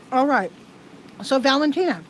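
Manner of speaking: talking while chewing ice. Real, not acted. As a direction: mouth full of ice. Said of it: "sorry, I'm chewing ice".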